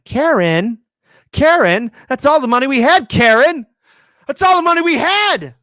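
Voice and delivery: shrill high yelling, mock movie rage; hammed-up screaming quote of Goodfellas; Goodfellas shout. Host quoting a movie, hammed-up furious shouting.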